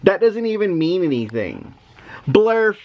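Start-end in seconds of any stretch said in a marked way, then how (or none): 2.3-2.8 silly nonsense word. Shown as a demonstration. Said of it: "the words say".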